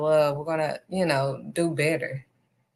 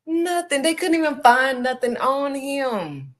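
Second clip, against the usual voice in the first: preaching climax; 8 semitones higher than usual. Real, not acted.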